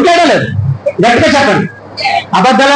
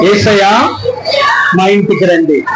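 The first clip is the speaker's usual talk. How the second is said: a raised, pleading invitation; calling out in prayer; 6 semitones lower than usual. Shown as a demonstration. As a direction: cry out, pleading for Jesus to come home. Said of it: "అడగండి ఒకసారి".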